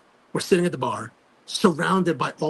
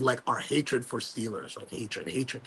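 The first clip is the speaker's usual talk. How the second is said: slow, dropping repeats of hatred, hatred, fading softer each time; dwelling on hatred; 5 semitones lower, 7 dB quieter, slower than usual. Real, not acted. Fan stressing hatred for the Steelers, slow and fading. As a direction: lean on the word hatred and let it sink. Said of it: "It's outright hatred".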